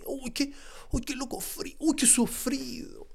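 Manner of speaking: soft, high mocking self-pity. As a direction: tease yourself as cold-hearted, hushed. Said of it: "qué frío el Tommy".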